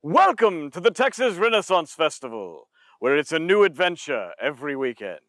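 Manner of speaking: theatrical English accent welcome; lively English accent announcer; festival English accent. Shown as a demonstration. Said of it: "Let's move on to accents".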